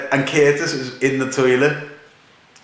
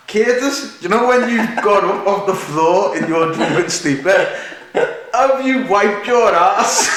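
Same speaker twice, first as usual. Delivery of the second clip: laughing question; 4 semitones higher than usual. Retold or imitated. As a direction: tease a drunk friend through laughter. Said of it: "I then made the remark".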